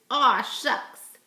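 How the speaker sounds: playful aw shucks. Shown as a demonstration. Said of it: "I want you to say".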